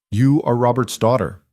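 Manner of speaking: lightly voiced Italian crime boss, every word weighed; Italian accent. Mob boss sizing up a debtor's daughter, lightly Italian-accented. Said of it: "his English carrying a rich Italian accent".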